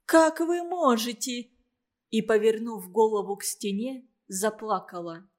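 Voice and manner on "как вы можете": higher, louder, near tears; tearful outcry. A narrator's reading. Mother turns away from Klim, higher and louder, near tears. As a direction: repeat it breaking into tears. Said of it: "воскликнула Любовь Михайловна".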